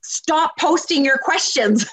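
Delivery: imploring advice, stretched out high; exasperated plea. Retold or imitated. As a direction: tell them off with every word stretched. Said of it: "that's why I tell people".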